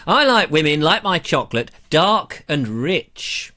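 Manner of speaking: serve the gag like a cheeky comic; announced naughty joke read to the viewers; mock joke delivery. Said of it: "A little bit of male misogyny coming up".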